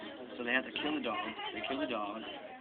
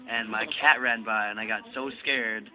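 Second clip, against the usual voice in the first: louder, slow, deadpan confession; embarrassed guy confessing; 7 dB louder, slower than usual. Retold or imitated. Retelling the patient's excuse to a friend, loud slow confession. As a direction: spell out the silly excuse slowly and loudly. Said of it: "And the guy was like".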